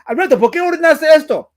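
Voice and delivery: loud, high imitation of an angry Spanish-speaking mother; mock a furious mom scolding; hammed-up maternal outrage, pitched high; pissed-off mom. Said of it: "my mom was pissed".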